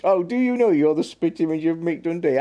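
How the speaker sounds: put-on high, loud Aussie accent; mock Aussie accent. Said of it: "I won't do my Aussie accent".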